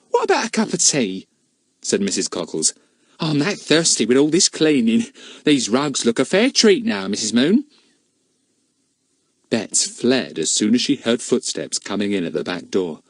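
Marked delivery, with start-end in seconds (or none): 0.1-7.6 cleaning woman's voice. Acted. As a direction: warn her knowingly. Mrs Cockles chatting.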